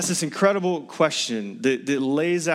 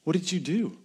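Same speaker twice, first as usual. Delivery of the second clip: gentle fatherly question; 4 semitones higher than usual. Shown as a demonstration. Preacher voicing God to Eve in the garden, tender. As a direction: ask it tenderly, a father to a hiding child. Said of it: "It's the same question".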